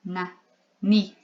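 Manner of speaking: na, ni as short separate syllables opening on n; initial n sound. Shown as a demonstration. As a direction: sound out na, then ni, each on its own. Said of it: "ele tem som de n".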